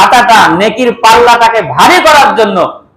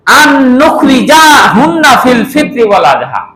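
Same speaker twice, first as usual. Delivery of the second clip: 1 called-out hadith; 4 semitones higher than usual. Acted. Hadith Arabic cried out.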